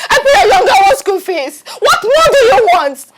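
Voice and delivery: wife crying out at her husband; crying shout. Acted. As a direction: sob out her grievances.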